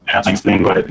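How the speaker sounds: robotic, voice-changer sound. Real, not acted. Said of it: "sorry I sound like a robot".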